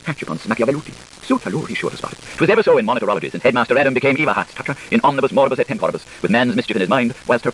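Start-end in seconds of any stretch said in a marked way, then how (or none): 1.2-2.2 whispered aside. A narrator's reading. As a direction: breathe it as a secret. Unvoiced aside in reading.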